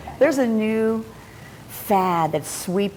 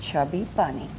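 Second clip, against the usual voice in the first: cheeks stuffed full; 5 semitones lower, 6 dB quieter than usual. Real, not acted. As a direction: mouth crammed with marshmallow. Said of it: "Put it in your mouth and say".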